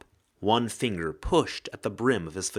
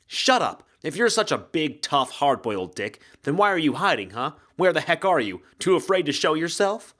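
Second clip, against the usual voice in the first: louder and higher, furious challenge; angry shout; 5 semitones higher, 4 dB louder than usual. Acted. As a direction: taunt him to show himself, yelling. Penn yells at hidden man.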